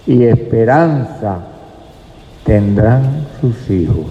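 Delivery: slow, measured verse reading with long pauses; scripture reading. Acted. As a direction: read the verse out slowly, phrase by phrase. Reads a Bible verse aloud.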